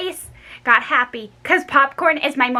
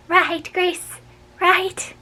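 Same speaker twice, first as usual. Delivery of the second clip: high pleading "Right, Grace, right?"; 8 semitones higher, much slower than usual. A narrator's reading. Girl begging Grace to say right, pleading high. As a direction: beg her to agree.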